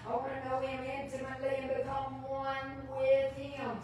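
usual speaking voice

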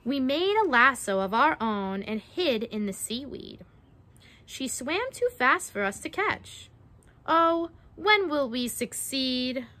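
measured picture-book storytelling; reading to children. Acted. Narrator reading a mermaid-trapping rhyme to children, storytelling. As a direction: read it out with a lilting rhyme.

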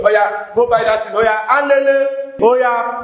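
a hint of a mother shooing a child; mother sending child off. Mother sending her child on an errand, mock impatient. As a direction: urge them to go, quick and pushy. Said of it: "you say".

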